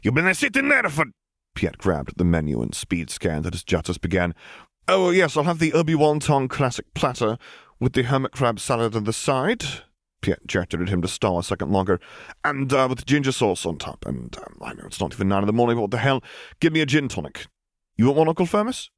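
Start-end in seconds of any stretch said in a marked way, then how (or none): 0.0-1.0 high squeaky alien waitress; belligerent waitress. Acted. Tiny waitress demanding their order, high and squeaky. 4.9-18.9 high, eager ordering voice; cheerful nephew. Acted. Justice ordering breakfast in a rush, high and eager.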